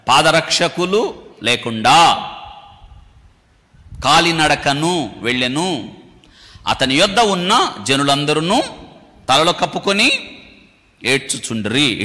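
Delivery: slow, drawn-out Bible reading; measured pulpit recitation; scripture reading. Acted. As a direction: read the verse out slowly, stretching the words. Continues reading the verse.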